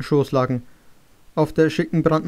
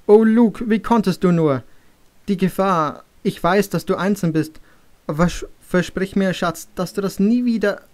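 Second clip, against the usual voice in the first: a hint of a worried, scolding mother, raised pitch at the start; 4 semitones higher than usual. Mother scolding her son for his dangerous visits, anxious. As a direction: tell him off like a frightened mother. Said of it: "seine Mutter hatte sofort geschimpft".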